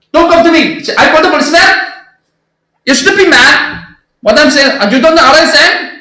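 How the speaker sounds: exaggerated Indian English quarrel, high pitch; Indian English accent. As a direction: play an angry Indian cabbie in broken English. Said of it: "인도식 영어가 그랬거든요".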